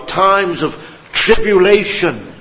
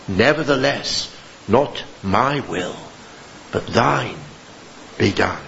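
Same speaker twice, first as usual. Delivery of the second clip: much lower and softer, slowing to a near hush; hushed surrender; 6 semitones lower, 6 dB quieter than usual. Acted. Preacher voicing his own prayer in trial, hushed. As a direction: let each phrase fall away in humble surrender.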